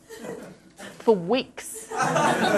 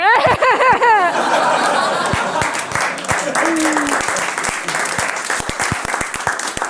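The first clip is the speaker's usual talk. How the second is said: long, high hammed-up cackle; exaggerated unhinged laughing fit; manic laugh; 7 semitones higher than usual.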